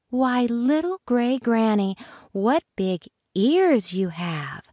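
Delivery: a hint of a curious little girl; lightly voiced Little Red. Little Red to wolf, lightly voiced girl.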